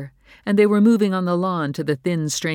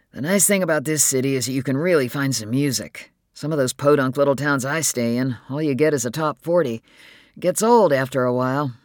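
louder voice for an easygoing man; Al, easygoing and chatty; 5 dB louder than usual. Acted. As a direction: speak up as a man chatting about music. Voices Al in dialogue.

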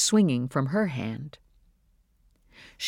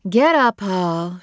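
firm mother; 5 semitones higher, 6 dB louder, slower than usual. Acted. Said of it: "she said".

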